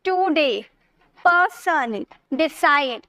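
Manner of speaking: टुडे, पर्सन, डिसाइड each in two clear beats; two-syllable delivery. Shown as a demonstration. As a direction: lightly separate the halves of टुडे, पर्सन, डिसाइड. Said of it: "दो syllable होंगे तो आपको ऐसे बोलना होगा". (टुडे, पर्सन, डिसाइड दो-दो हिस्सों में)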